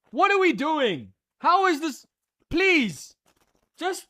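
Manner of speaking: rising exasperation at the driver; exasperated disbelief. Real, not acted. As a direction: beg the heavens in disbelief. Exasperated rant at penalty.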